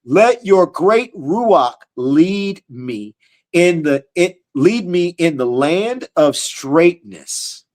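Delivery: drawn-out reverent reading of the verse; slow scripture reading. Acted. Preacher reading the psalm to his listeners, slow and reverent. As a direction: read each word slowly, like holy text.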